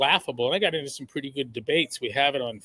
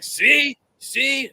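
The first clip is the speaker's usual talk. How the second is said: high excited "See? See?"; gleeful see see; 10 semitones higher, 4 dB louder than usual. Retold or imitated. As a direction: crow it out, delighted. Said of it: "Tom's like".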